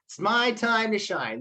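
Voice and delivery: drawn-out, eager relish; excited tomato. Acted. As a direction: act out a tomato thrilled at its big moment. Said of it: "he gets real excited".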